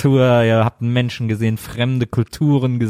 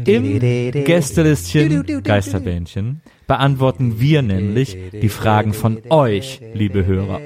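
podcast announcer; 3 semitones lower, slower than usual. Acted.

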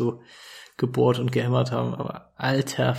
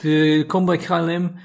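airline pilot announcement; 3 semitones higher than usual. Pretend. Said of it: "auch hier aus dem Cockpit".

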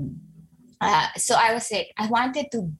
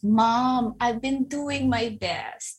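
put-on tearful child; 2 semitones higher, slower than usual. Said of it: "with tears in her eyes, and she was really crying".

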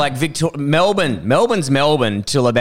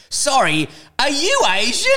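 higher-pitched, rising question of wonder; mock innocent amazement; 12 semitones higher than usual. Local asking the comedian from his car window, mock innocent amazement. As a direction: imitate a curious local, voice climbing in disbelief. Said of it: "Like he'd never seen an Asian person before".

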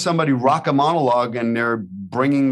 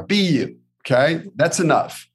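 coaching pep talk; 4 semitones higher than usual. Shown as a demonstration. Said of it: "Coach Billy".

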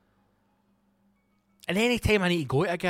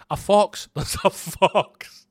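panicked fox alarm; 5 semitones higher, 6 dB louder, slower than usual. Retold or imitated. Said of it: "And he says".

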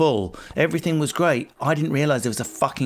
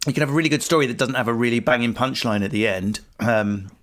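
talking through a mouthful of pizza; words round a bite of food; chewing while talking. Real, not acted. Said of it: "sorry, I'm trying to eat pizza and talk".

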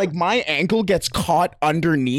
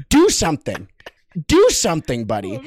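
goading challenge. Retold or imitated. Squaring up to opponent.

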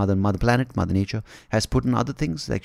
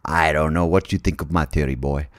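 put-on Southern American accent; 5 semitones lower than usual. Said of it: "I'm Southern American".

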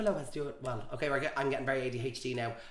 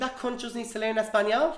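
loud mock scold; 9 semitones higher, 7 dB louder than usual. Real, not acted. Mock-indignant joke.

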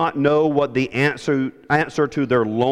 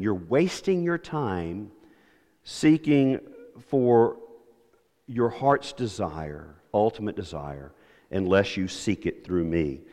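slow and softer, pausing between words; slow soft repeat; 4 semitones lower, 5 dB quieter than usual. Shown as a demonstration. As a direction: let each phrase sink in gently. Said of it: "Jesus is saying".

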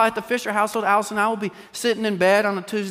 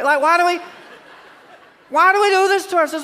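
much higher, laughing; laughing exasperation; 12 semitones higher, 4 dB louder than usual. Real, not acted. Preacher laughing at the congregation's trauma habit, high-pitched. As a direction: laugh at our own habit. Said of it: "laughing exasperation".

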